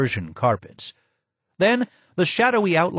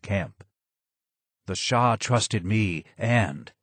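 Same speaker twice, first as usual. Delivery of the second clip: low and hoarse. Acted. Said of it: "more sad than angry".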